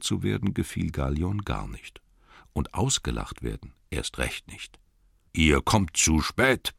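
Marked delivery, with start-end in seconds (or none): 5.3-6.7 grumbling. Acted. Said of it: "brummte er".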